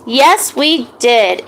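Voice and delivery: slow, sleepy yawned words; yawning. Acted. Tired boy answering Miss Jane, yawning. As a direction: stretch it out through a yawn. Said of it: "Aiden said while yawning".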